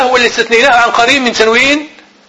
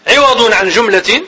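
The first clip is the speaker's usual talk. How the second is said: slow and deliberate; dictating pace; slow dictation; slower than usual. Shown as a demonstration. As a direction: dictate it slowly for notes. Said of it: "teacher dictating".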